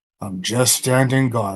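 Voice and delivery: weary, tired, sighing delivery. Playing a character who answers with a sigh: sighing. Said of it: "I just kinda sigh and go".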